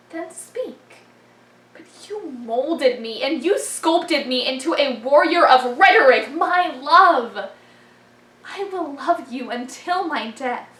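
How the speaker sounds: spoken-word poem, swelling from hushed to loud; poem recitation. Acted. Performer vowing love to forensics, swelling poem recitation. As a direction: start hushed, build to a declaration, then ease off.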